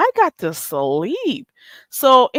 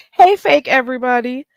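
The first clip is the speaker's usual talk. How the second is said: sing-song "hey", higher and sugary, hamming it up; mock fake greeting; 4 semitones higher, 4 dB louder than usual. Teasing her fake friends on stream with mock sweetness. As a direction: greet them like a phony best friend. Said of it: "let me be fake and phony with you".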